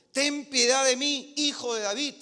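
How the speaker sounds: mild shouting plea. Acted. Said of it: "viene gritando".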